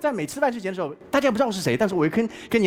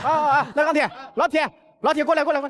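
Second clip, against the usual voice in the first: mock police call; 7 semitones higher than usual. Joking riff on the police call.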